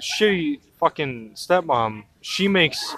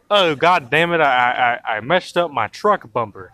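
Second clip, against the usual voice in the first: louder, put-on hillbilly accent, griping; mock hillbilly accent; 5 dB louder than usual. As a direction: whine about the truck in a hammed-up hillbilly accent. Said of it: "I speak American and hillbilly".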